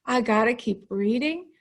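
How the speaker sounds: groaning, reluctant complaint; a heavy "oh", then grudging; bored reader. Acted. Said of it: "if it starts with a boring sentence. They're like".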